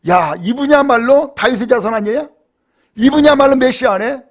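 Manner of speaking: mildly acted awe and excitement; moved and amazed. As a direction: imitate people marvelling, voice lifted. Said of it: "전부 다 감격하며 놀라운 거예요".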